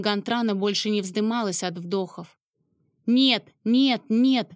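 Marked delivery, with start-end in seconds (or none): 3.1-4.5 feverish whisper. A narrator's reading. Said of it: "лихорадочно зашептала".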